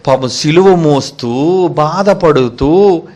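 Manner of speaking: very slow, stretched phrase endings; pitying, drawn out. Acted. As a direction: drag out each word as if sharing the suffering. Pitying picture of carrying the cross. (జాలిగా, సాగదీస్తూ నెమ్మదిగా)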